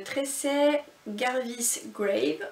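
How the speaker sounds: slow, careful name in an English accent; reading an English author's name aloud in an English accent. Shown as a demonstration. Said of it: "je vais le dire sur mon accent anglais".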